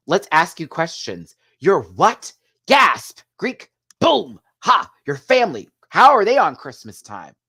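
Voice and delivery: high, loud, hyper impression; manic excitement. Vlogger mocks Crystal's hyper interview questions, high and loud. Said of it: "impersonating Crystal's manic questions".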